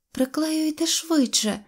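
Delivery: put-on high, drawn-out girlish fretting; anxious urging. A narrator's reading. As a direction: urge him nervously in a high voice. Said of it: "хвилювалася Синьоочка". (схвильоване дівоче прохання)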